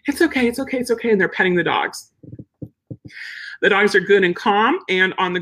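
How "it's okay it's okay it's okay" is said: soothing owner. Retold or imitated. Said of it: "The dog's whining".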